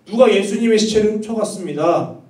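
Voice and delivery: mildly acted desperate appeal; earnest tearful plea. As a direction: imitate a distraught woman pleading. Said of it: "간절한 마음으로".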